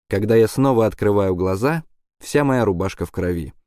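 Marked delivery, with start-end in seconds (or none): none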